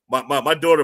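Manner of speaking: ordinary talk, nothing marked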